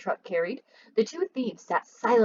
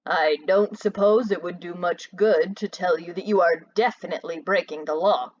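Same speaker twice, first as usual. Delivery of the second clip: calm; 4 semitones lower than usual. Acted. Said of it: "his voice was calm".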